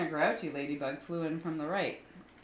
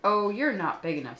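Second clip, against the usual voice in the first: loud boast; 3 semitones higher, 8 dB louder than usual. Acted. Grouchy ladybug boasting.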